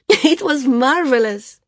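put-on high, loud, elated girl; thrilled, voice soaring; sheer joy. A narrator's reading. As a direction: burst out overjoyed, drawing out the marvel. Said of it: "laughed in sheer joy".

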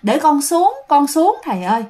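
a possessed man begging through the pain; pained pleading. Retold or imitated. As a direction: beg the monk to stop, in pain. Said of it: "Dượng giống như là rất là đau".

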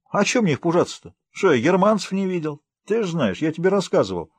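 high, scoffing country talk; bragging village uncle. Acted. Uncle Vanya boasts he has seen Germans before, high and scoffing. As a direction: brush off any fear with folksy bravado.

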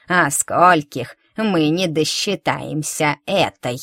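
slow, grim crone voice; old woman gloating. Acted. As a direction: smile toothlessly while you threaten. Old woman answers, grinning.

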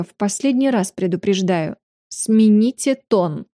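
slow, cold final warning; stern warning. Acted. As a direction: lay down the last warning slowly.

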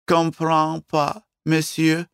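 put-on high, slow, girlish French voice; French waitress. Waitress answering the Russian guest, puzzled and girlish.

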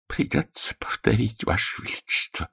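soft, hushed, mournful. A narrator's reading. Healer mournfully warning the king, soft and hushed. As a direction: say it with sorrowful gravity. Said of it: "скорбно произнёс Будах".

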